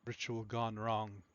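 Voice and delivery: flat, slow deadpan delivery. Acted. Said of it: "like, a deadpan voice".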